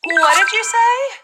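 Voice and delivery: slow, high "What did you say?" rising on SAY; not-hearing question. Acted. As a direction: draw out "What did you say?" as a puzzled query. Acts not hearing someone.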